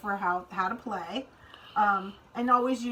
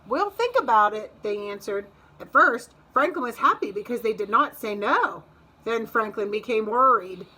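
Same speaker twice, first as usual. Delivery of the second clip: put-on reading to children. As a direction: lively, clear storybook read-aloud. Reads picture book to kids.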